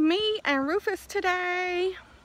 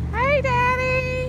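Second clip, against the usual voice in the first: calling out loud; 7 dB louder than usual. Real, not acted. Calling to dad.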